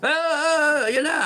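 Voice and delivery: high, flustered stammering gasps; hammed-up frightened stammer; mock panic. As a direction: mimic someone losing their nerve in a rush. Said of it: "Hindi yung ganyan na".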